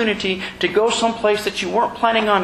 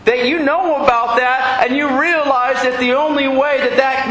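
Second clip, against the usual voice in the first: higher and slower, pressing each point; lady pressing him louder and louder; retold loud challenge; 5 semitones higher than usual. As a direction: push her questions up and out like a heated woman. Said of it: "she started getting really loud".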